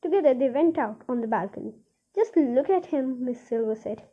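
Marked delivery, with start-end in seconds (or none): 2.1-3.2 proudly. Acted.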